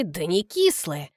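кислые stressed low and slow, sly; hint that кислые hides a secret; sly smirk. Acted. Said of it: "усмехается Колька хитро".

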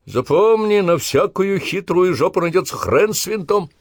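high, loud, jeering sergeant yell; mocking bellow. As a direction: hector the fumbling recruits. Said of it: "забаскали".

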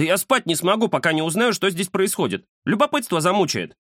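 burn with curiosity; curious tomcat. A narrator's reading. The cat tells his friend he cannot leave, high and curious.

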